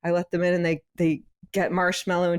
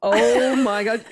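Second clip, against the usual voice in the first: amazed; 4 semitones higher, 5 dB louder, slower than usual. Real, not acted. Reacting to whiskey swig.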